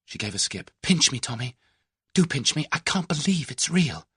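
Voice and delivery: a hint of a breathless girl who can't believe her luck; Tuppence's voice, excited; excited young woman. A narrator's reading.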